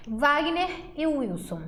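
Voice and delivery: Wagner e Wilson said slowly and deliberately; slow presentation. Shown as a demonstration. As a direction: lay the two names out slowly for the class. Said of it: "Trouxe dois nomes". (devagar, apresentando os dois nomes)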